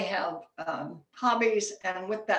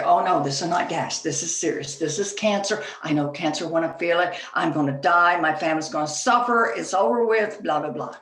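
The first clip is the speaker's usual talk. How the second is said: mock panic; 3 semitones lower, 4 dB louder than usual. Panicked diner fears cancer.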